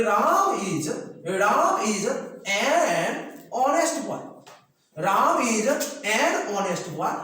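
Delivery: very slow, each word drawn out; slow classroom model sentence; slow demo of right sentence. Shown as a demonstration. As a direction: model the correct sentence slowly. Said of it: "ये example आपका सही हो जाएगा".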